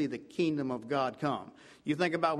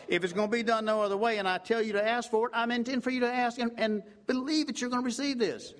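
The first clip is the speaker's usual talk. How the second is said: rising fervor; 6 semitones higher than usual. Real, not acted. Preacher building intensity.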